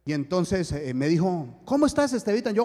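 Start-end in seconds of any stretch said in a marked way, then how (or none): 1.6-2.5 affectionate greeting. Retold or imitated. Sister's greeting on the phone.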